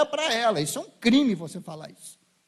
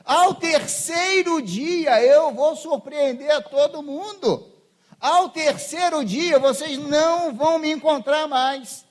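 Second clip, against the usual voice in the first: slow, loud, lightly voiced solemn promise; solemn voice of Jesus; 5 semitones higher, 5 dB louder, slower than usual. Preacher voicing Jesus's promise, slow and solemn. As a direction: proclaim it slowly like a prophecy. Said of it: "Jesus prometeu. Falou".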